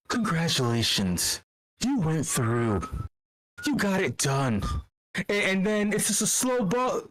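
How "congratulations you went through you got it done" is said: mock partner's praise. Voicing partner patting his head.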